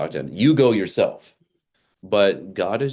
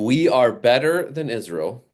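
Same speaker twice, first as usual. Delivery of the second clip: lightly voiced arrogant boast, higher; proud inner voice; 6 semitones higher than usual. Naaman thinking he is above Israel, mildly haughty. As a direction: puff up like a conqueror. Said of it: "he's thinking".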